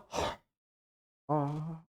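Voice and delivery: mock weary sigh, trailing into a soft "ah"; demonstrated sigh. Preacher showing a habitual sigher facing a problem, demonstrated sigh. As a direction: let out an acted sigh. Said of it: "한숨이 중독돼서 그런 거예요".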